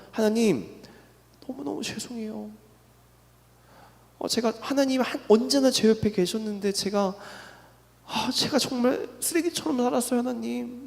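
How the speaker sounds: a hint of sobbing repentance, hushed; retold tearful apology. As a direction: replay the broken-down apology almost under the breath. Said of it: "진짜 엉엉 울면서".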